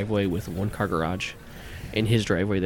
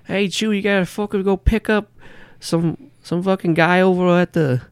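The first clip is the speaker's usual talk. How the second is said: loud, much higher yelling New Yorker; yelling boss; 8 semitones higher, 6 dB louder than usual. Acted. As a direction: holler the order across the garage. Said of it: "He says".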